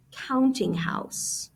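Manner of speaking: counting house drawn out slowly, leaning on "counting"; slow, careful emphasis. Shown as a demonstration. Teacher slowing down a new term for students, drawn out. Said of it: "I'm gonna put in parentheses".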